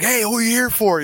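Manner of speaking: retold call to people below. Calling down from the balcony.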